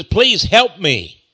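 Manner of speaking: slow, mild plea for help; begging. Acted. Centurion begging Jesus for help, slow plea. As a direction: plead slowly, without raising the voice much. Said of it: "He was begging him".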